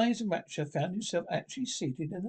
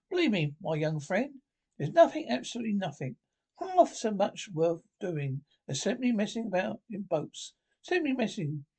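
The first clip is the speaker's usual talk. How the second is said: earnest Rat; 4 semitones higher than usual. Acted. Rat extols boating.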